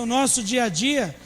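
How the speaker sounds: ordinary talk, nothing marked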